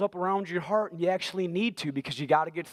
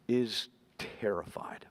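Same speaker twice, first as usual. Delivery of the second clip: slow, breathless whisper, much softer; hushed whisper; 7 semitones lower, 5 dB quieter, slower than usual. A narrator's reading. Preacher telling the congregation how scared the woman was, whispered. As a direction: let the word barely escape, as if afraid to be heard.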